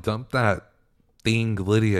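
holding back a cuss word, irritated; annoyed, cleaned up. Retold or imitated. To Alec about Lydia, swallowing a cuss, annoyed. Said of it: "oh, I was so annoyed".

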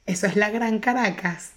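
retold shout insisting it counts; indignant insistence. Woman from Los Teques insisting to the teller, mock shout. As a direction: she yells back that it's Greater Caracas.

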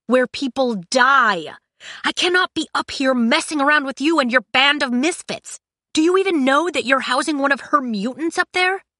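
high, forceful tirade; angry rant. Acted. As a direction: berate them with mounting outrage. Kai's angry rant at Cinder.

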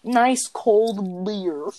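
drawn out, very slow; slow and deliberate. Shown as a demonstration. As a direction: say it slowly, word by word. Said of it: "not code".

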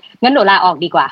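sarcastic quit. Retold or imitated. Quoting sarcastic employee.

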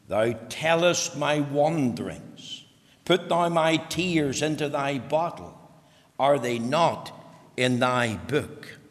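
slow, deliberate reading of the text; scripture reading. Acted. Pastor announcing his text to the congregation, slow and deliberate. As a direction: give each phrase weight and space.

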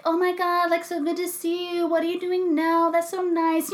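high, soft, pleasant small talk voice; polite reunion gushing. Retold or imitated. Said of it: "nice things where you were like".

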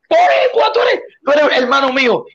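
high, thrilled shout of recognition; excited greeting. Retold or imitated. A man overjoyed to meet a fellow Puerto Rican, shouting high. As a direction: greet him like a long-lost brother.

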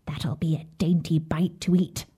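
soft whispered aside; muttered to herself. Acted. Witch whispering to herself over the sleeping children. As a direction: hush it under your breath, greedy. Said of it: "she muttered to herself".

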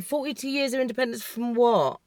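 softly baffled, questioning the celebration; understated, incredulous question; gobsmacked. Retold or imitated. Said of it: "I was gobsmacked".

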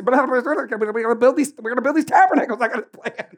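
high, eager builder's rush; hammed-up eager Peter; excited Peter. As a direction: pitch it up like a giddy planner. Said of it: "Peter just".

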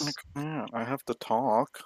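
talking through a mouthful of food; mouth full. Real, not acted. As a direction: speak while still chewing. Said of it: "you're talking with your mouth full".

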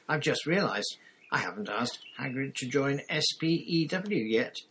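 light up with the idea; bright. Acted. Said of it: "she said brightly".

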